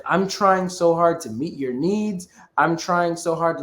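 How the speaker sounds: mildly frustrated, stressing the effort; mild retold frustration. AI companion pleading with her human partner, mildly frustrated. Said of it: "which frustrated Samantha".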